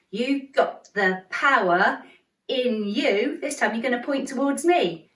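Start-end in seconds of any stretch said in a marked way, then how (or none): 0.1-3.4 slow, got and power punched; stress on got and power. Shown as a demonstration. Teacher showing the kids, slow stress on got and power. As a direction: drive got and power home. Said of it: "There's that got and power again".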